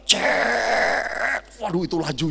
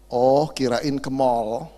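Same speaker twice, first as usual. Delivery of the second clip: slow, lower, chuckling deaf husband; mishearing husband; 7 semitones lower, much slower than usual. Retold or imitated. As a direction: drawl it out, missing the point.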